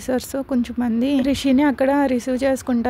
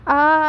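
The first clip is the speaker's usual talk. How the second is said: short mock scream of labour pain, a bit louder; a half-hearted cry of pain; narrated scream; 3 semitones higher, 5 dB louder than usual. A narrator's reading. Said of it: "అంటూ గట్టిగా అరుస్తుంది".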